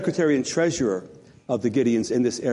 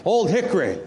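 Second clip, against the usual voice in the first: lightly put-on Southern accent; mock Southern US accent; 4 semitones higher than usual. Shown as a demonstration. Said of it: "say it with a southern accent".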